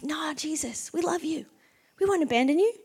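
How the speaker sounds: high, soft mock pleading; lightly voiced loyal followers, hushed and high; earnest devoted protest. Disciples protesting their devotion to Jesus.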